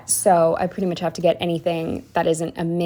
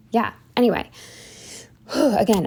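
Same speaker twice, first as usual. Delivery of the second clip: sighing, winded; out of breath; 3 semitones higher than usual. Real, not acted. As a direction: catch your breath mid-talk. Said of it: "out of breath".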